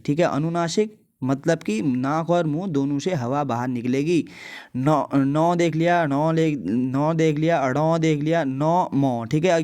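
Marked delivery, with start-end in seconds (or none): 4.8-9.2 slowly sounding each nasal letter; nasal consonants demo. Shown as a demonstration. Teacher demonstrates nasal letters to students, slow and careful. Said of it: "ये पांचों का अगर आप, अ, उच्चारण करेंगे".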